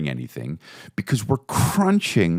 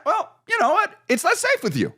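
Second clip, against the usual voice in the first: blunt jab. Retold or imitated. Confessing the blunt truth.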